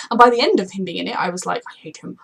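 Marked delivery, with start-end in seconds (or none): 1.7-2.2 breathy whisper of "I hate him". Retold or imitated. Fan remembering her dislike, whispered. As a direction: hiss it out under your breath. Past self reacting to the character.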